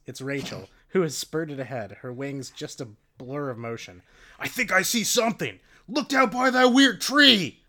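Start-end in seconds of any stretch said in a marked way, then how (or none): 4.4-7.6 excited call. Acted. Rachel excitedly calling out a discovery, loud. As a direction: point it out eagerly.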